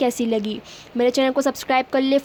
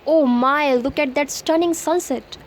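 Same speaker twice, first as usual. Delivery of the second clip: awed; much slower than usual. Shown as a demonstration. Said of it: "तो आप उसको देख के बोलेंगे".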